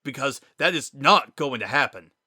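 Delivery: loud, frustrated outburst; shouting. Acted. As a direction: yell it at him, fed up. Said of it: "He'd never heard Sans shout like that before".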